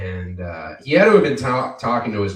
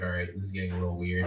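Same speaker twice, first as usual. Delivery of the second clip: rushed, quicker uneasy brush-off; fast awkward; 4 semitones lower, 5 dB quieter, much faster than usual. Retold or imitated. Barista cutting off a customer's awkward confession. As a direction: hurry it out to end the awkwardness. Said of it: "And I was like".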